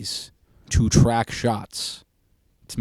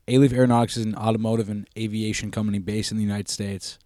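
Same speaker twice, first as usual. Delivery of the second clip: talking around a wad of gum; reading with gum in mouth; chewing gum. Real, not acted. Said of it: "I got gum in my mouth".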